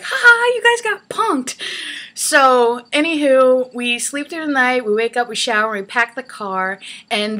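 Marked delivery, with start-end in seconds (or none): 0.0-1.6 high, loud gotcha shout; mock prankster bursting in with the reveal; Ashton Kutcher. TV prankster bursting through the door, gleeful high taunt. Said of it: "waiting for Ashton Kutcher to".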